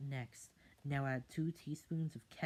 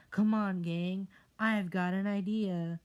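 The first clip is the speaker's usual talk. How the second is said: high, loud eager call; rally the gang; excited rallying kid; 7 semitones higher, 10 dB louder than usual. Acted.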